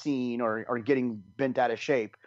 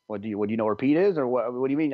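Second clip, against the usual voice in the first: fast, louder, pushy demand; blunt inner thought; 4 dB louder, much faster than usual. Retold or imitated. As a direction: blurt it out fast and impatient. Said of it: "I didn't say that".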